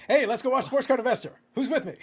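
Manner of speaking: loud, high-pitched call to the troops; mock rallying cry. Podcaster mockingly rallying viewers to a video channel, mock rallying cry. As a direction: shout it out like rounding up a crowd, in jest.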